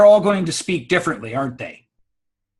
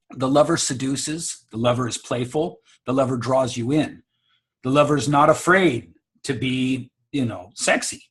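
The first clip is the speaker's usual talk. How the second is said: lightly seductive, drawing the listener in; seductive lover; 2 semitones lower than usual. Shown as a demonstration. Speaker describes the lover voice to listeners, lightly seductive.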